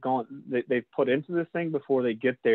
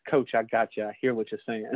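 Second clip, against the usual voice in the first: calm coach whisperer; 3 semitones lower than usual. Shown as a demonstration. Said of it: "coach whisperer voice".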